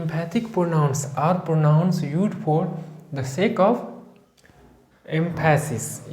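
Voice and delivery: words spaced out very slowly; slow dictation. Shown as a demonstration. Teacher dictating notes to the class, very slow. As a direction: dictate at writing pace.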